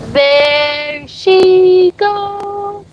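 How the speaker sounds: very slow, high stretched there she goes; drawn-out cheer. Real, not acted. Owner watching the dog go, slow and high.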